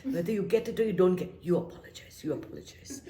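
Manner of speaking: mother's firm line, sinking to a hushed repeat; mother's insistence. Retold or imitated. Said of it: "She said".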